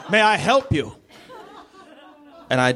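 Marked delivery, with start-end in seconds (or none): 0.1-1.0 slow, high, grand villain voice; drawn-out, hammed-up menace; Bond villain. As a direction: announce yourself like an evil mastermind. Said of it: "Like a Bond villain".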